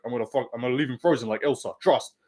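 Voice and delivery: fast, lightly mocked fighter catchphrase; quick, half-hearted impression of a fighter; Izzy. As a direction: rattle it off as a poor copy of a fighter's impression. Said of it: "They just say botched and tries".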